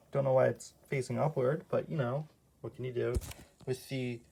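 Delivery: barely above a whisper; quietly murmured commentary; hushed late-night talk. Real, not acted. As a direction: keep it down so nobody wakes. Keeps hushed for parents.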